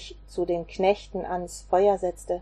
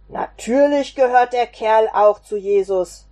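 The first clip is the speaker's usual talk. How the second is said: louder, a servant insisting to the others; calling out; 6 dB louder than usual. Acted. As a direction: call it out so all can hear. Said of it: "rief einer von ihnen". (lauter Zuruf)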